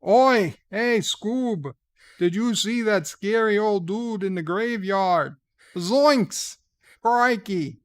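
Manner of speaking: Ozzy O'Brien impression. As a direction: bark the lines like a rowdy rocker. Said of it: "Maybe Ozzy O'Brien can do it".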